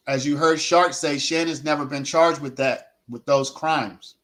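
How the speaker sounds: talking while chewing gum; words round a wad of gum; mouth full of gum. Real, not acted. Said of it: "Take this gum out my mouth".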